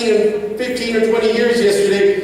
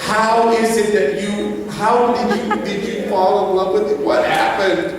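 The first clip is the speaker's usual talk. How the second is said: son's question, laughing. Retold or imitated. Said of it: "He's like".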